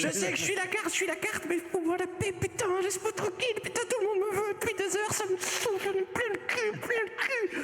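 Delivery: high, whiny fed-up card; fed-up talking card. Acted. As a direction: rant like a sulky little card.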